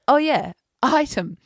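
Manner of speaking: drawn-out high agreement; niece agreeing. Retold or imitated. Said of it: "And she was like".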